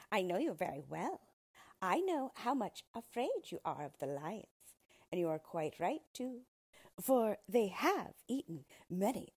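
a small creature greeting the queen; yellow dwarf. Acted. Dwarf greets the frightened queen, lightly voiced sly.

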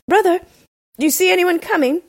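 afflicted husband's high-pitched cry. A narrator's reading. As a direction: call up to the tower for help. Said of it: "the poor afflicted husband cried out".

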